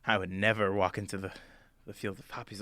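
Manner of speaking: low, soft, mildly horrified driver; a touch of dread, voice dropped; shuddering dread. Acted. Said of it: "he kinda shudders and he goes".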